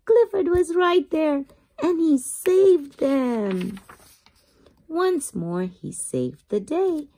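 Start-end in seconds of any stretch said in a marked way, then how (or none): 0.1-3.8 higher, slowing triumphant storybook reveal; excited reading. A narrator's reading. Reader tells children the big dog saves the kids, excited. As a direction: announce the hero's rescue with a lift. Rescue climax read aloud.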